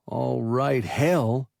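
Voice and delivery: flat, bitter monotone; thin monotone. A narrator's reading. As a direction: say it dull and sour. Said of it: "in a thin monotone".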